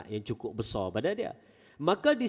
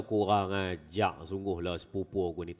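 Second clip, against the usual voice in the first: Kedah dialect; 5 semitones lower than usual. Retold or imitated. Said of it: "jangan faham dia orang Kedah pula".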